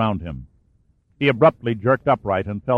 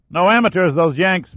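high, loud yell across the fight; 8 semitones higher, 4 dB louder than usual. A narrator's reading. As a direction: shout it back over the fire. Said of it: "Macklin yelled back".

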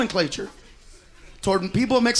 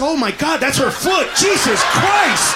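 mock shock; 3 semitones higher, slower than usual. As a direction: stretch it out in disgust. Shocked at trailer trash foot.

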